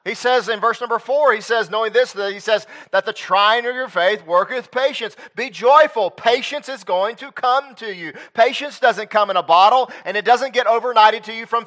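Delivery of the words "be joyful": ordinary talk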